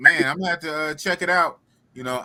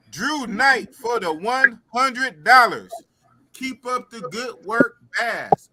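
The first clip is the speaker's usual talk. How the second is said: donation shout-out; 3 semitones higher, slower than usual. Real, not acted. Announcing a hundred-dollar donation.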